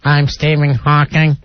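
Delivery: slow, mechanical computer voice; a slow, lightly robotic voice; robotic Hawking voice. Retold or imitated. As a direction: say it like a speech synthesizer. Stephen Hawking voice bit.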